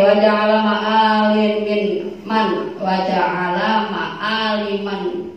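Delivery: slow, drawn-out chanted Arabic; slow devout recitation. Acted. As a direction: intone it like a prayer, very slowly. Recites Arabic prayer text.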